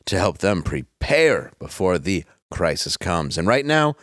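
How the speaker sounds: hammed-up sponsor pitch; ad read. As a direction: sell it like a cheesy radio ad. Reads sponsor ad copy.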